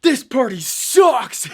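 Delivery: loud, high and slow heckle; mock party-crasher shout. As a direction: drag it out, booing the party. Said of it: "and he goes".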